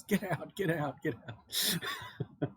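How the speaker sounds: high-pitched, softened mock scream; retold scream. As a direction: imitate a panicked professor's scream without full volume. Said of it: "he starts screaming to the students".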